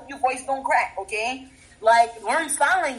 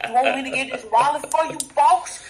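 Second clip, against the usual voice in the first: lightly voiced servile convict, lifting each "boss"; Shawshank Redemption style. Shown as a demonstration. Coaching how to address police, lightly servile convict. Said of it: "like Shawshank Redemption style".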